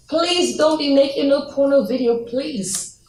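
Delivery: pleading, with a drawn-out final appeal; earnest plea. Real, not acted. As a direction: beg them sincerely not to do it. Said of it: "I beg and plead with you".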